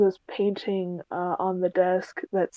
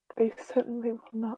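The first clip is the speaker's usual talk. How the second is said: hushed half-whisper spoken close to the ear; 4 semitones higher, 6 dB quieter than usual. A character half-whispers this into another's ear as their time runs out: half-whispered. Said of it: "She whispers that in her ear".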